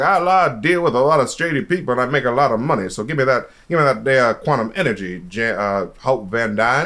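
loosely impersonated shady weapons dealer; Walton Goggins. Acted. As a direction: play a proud arms dealer, lightly put on. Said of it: "Is this, is this your Walton Goggins impression?".

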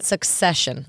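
"succession" begun with a short suhk; suck-session. Shown as a demonstration. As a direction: say succession like success plus shun. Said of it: "I say it differently every time".

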